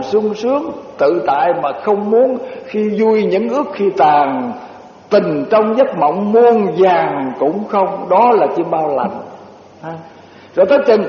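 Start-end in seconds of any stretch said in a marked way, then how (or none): 2.7-8.1 very slow poem recitation; recited verse. Acted. Monk reciting a couplet about dreams, very slow. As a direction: stretch out every word of the couplet.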